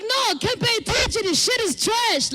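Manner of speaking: loud fast fed-up retort; a loud mock-annoyed rant; exasperated snap. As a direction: blurt it out loud and quick. Her retold retort.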